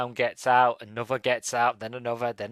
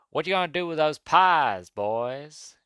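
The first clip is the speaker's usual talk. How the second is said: higher, drawn-out movie guard voice; imitated security guard; 4 semitones higher, slower than usual. Reviewer quoting the security guard's silly line, put-on guard voice. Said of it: "security guard just looks at him and goes".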